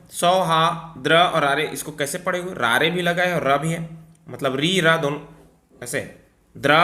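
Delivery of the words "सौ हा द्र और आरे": सौहार्द्र split as सौ, हा, द्र; slow syllable breakdown; broken into syllables. Shown as a demonstration. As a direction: pick apart सौहार्द्र sound by sound. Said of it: "इसको कैसे पहचानना है?".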